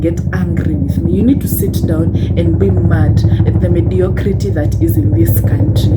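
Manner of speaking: rally them to be mad; loud angry rant. Real, not acted. Telling Kenyan viewers to be furious at mediocrity, loudly. Ranting, urging listeners to anger.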